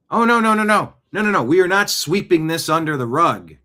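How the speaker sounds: outraged loud denial; loud indignant no. Real, not acted. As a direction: refuse it loudly, shaking with indignation. Indignant refusal of the official line.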